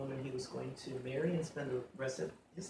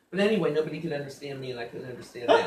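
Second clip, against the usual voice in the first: laughing; 11 dB louder than usual. Real, not acted. Laughs recalling school confusion.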